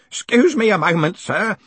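put-on high, loud wheeze of an old man; wheezing. A narrator's reading. Grote excuses himself mid coughing fit, wheezing. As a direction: force it out as if between coughs. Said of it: "he wheezed between hacks".

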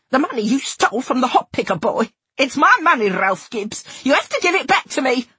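tearful shouting. A narrator's reading. Narrator demanding stolen money from Ralph, shouting and crying. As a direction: shout it at him, near tears. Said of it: "shouting at him, shouting and crying".

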